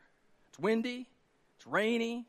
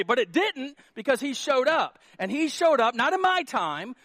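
raised, emphatic preaching; 3 semitones higher, 5 dB louder than usual. Real, not acted. Pastor testifying to congregation about his storms, emphatic preaching. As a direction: testify with rising force.

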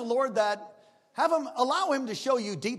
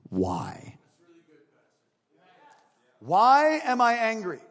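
searching question; 7 dB louder, much slower than usual. Shown as a demonstration. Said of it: "ask yourself".

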